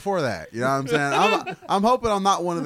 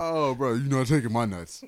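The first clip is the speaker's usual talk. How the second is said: lightly voiced defiant kangaroo; defiant kangaroo, barely put on; kangaroo impression; 3 semitones lower than usual. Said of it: "Do your kangaroo impression again".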